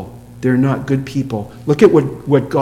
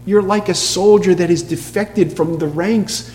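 higher-pitched, mildly gentle telling-off; gentle reproof; 5 semitones higher than usual. Acted. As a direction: break hard news gently, pitch lifted. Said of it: "he tells them something gently".

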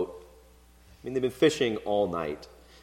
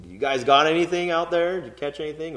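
lightly voiced casual guy, pitched up; casual buddy call; 5 semitones higher, faster than usual. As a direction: toss it off like a friendly fisherman. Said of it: "sort of like how we might say guys".

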